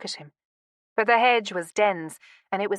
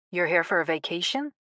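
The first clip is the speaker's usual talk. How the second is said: lightly voiced American male neighbor; a touch deeper, with a slight twang; hint of a Boston man; deep, twangy voice. A narrator's reading. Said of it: "His voice was deep, with a strange twangy accent".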